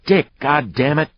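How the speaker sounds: high-pitched sharp protest; exasperated cry. A narrator's reading. Woman protesting as her man starts a fight, exasperated cry. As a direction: cry out to stop him.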